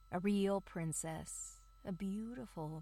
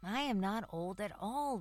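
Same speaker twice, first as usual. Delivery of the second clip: indignant; 2 semitones higher, 3 dB louder than usual. Acted. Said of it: "replied the tree".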